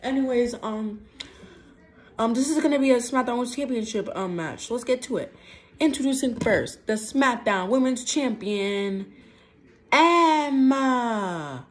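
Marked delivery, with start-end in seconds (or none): 5.8-11.7 announcer voice. Pretend. Ring announcer introduces champion.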